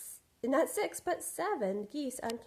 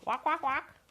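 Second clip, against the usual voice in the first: high loud honks "walk, walk, walk"; happy honking; 7 semitones higher, 6 dB louder than usual. Acted. Goose greets the shape, happy loud honks. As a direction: honk out with joy. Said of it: "she shouted happily".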